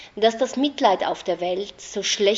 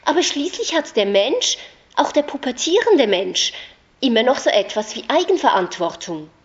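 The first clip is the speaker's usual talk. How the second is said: louder and higher, insisting; raised voice; 5 semitones higher, 6 dB louder than usual. A narrator's reading. Narrator to Anna, insisting loudly on responsibility. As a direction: drive the point home hard.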